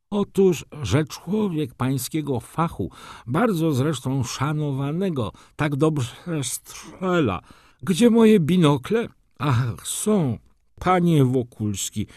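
high-pitched voice labouring through an injured jaw; wounded fussy baron. Acted. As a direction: stretch the words out, high and effortful. (wysoki, zbolały głos barona)

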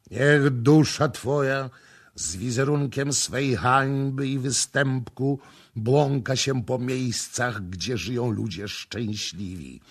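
ceremonial curse. A narrator's reading. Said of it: "rzekł inny kapłan".

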